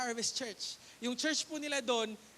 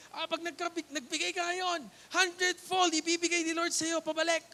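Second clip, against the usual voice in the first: higher, louder preacher pitch; preacher's promise; 5 semitones higher, 5 dB louder than usual. Retold or imitated. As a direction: sell it like a bold preacher. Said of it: "sabi ng preacher". (masiglang boses ng mangangaral)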